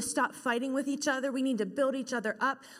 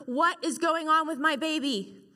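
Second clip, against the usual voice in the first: higher, louder frantic call across the room; yell; 4 semitones higher, 5 dB louder than usual. Retold or imitated. Mother yells across the delivery room to the nurses, loud and frantic. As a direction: demand answers about the baby. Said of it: "I yell across the room".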